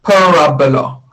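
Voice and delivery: Parabola said pa-RA-bo-la; stress on second vowel. Shown as a demonstration. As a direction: put the weight on RA in Parabola. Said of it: "the emphasis on the second vowel".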